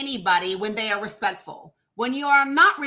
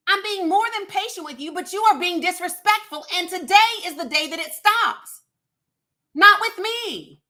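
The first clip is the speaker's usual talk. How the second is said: furious shout; 6 semitones higher than usual. Real, not acted. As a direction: lay down the law, done being patient. Host scolds disrespectful caller.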